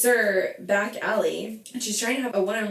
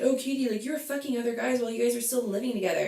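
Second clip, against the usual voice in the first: snide impression of the co-host's husband; mocking Schwartz quote; 3 semitones higher, much faster than usual. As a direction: mimic him dismissively, rattling it off. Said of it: "in the sense saying".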